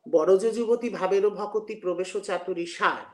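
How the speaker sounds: slow, lingering recital of the verse; verse recitation. Shown as a demonstration. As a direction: draw the verse out slowly.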